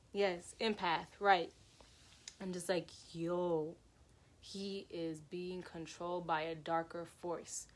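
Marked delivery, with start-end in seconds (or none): 3.1-7.7 hushed realization. Retold or imitated. Retold awed realization.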